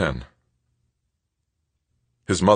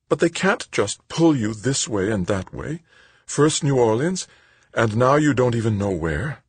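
high, upset mother voice; protesting mother; 7 semitones higher than usual. Acted. Mother objects to son being sent around, upset.

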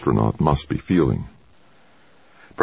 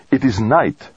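accusing; 9 semitones higher than usual. A narrator's reading. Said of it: "almost accusingly".

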